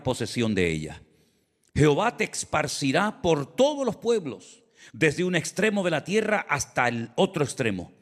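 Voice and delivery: emphatic, declaimed Bible reading with measured pauses; solemn scripture reading. Acted. Preacher reading Jehová's curses to the congregation, solemn and emphatic. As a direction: proclaim the warnings phrase by phrase, leaning on key words.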